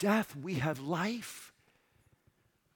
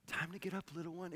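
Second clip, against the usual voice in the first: gentle parent; 6 dB quieter, faster than usual. Retold or imitated. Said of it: "This is what a parent would say to a child in the morning".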